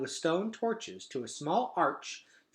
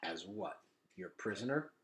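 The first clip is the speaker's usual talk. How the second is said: blunt; 4 semitones lower, 9 dB quieter than usual. A narrator's reading. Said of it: "said Gregor bluntly".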